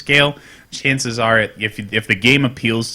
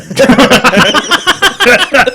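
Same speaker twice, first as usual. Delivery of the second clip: loud, high-pitched cackling laugh; big burst of laughter; 12 semitones higher, 8 dB louder than usual. Real, not acted. Host laughing at a co-host's crude joke, big loud laugh. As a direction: crack up helplessly at a crude joke.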